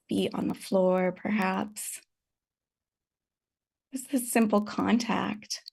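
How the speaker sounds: unhurried meditation guidance with long pauses; calm, spacious meditation teacher's delivery; guided meditation. Real, not acted. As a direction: gently guide them to settle, leaving space between phrases.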